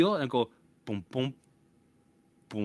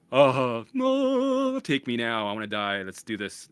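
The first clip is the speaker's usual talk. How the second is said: mock dramatic surrender; 6 dB louder, slower than usual. Man thinking he is dying, hammed-up surrender. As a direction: give in to death with a theatrical cry.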